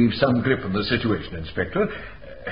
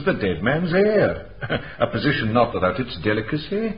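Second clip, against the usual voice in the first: speaks through a dry little laugh, slowing down; wry, laughing aside; amused chuckle. Acted. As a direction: let a knowing chuckle colour the words. Dry remark about the heir.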